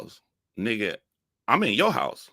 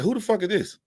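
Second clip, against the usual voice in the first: higher, with FUCK pushed hard; louder, more incredulous retake; baffled outrage; 14 semitones higher, 3 dB louder than usual. Retold or imitated. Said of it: "I was like".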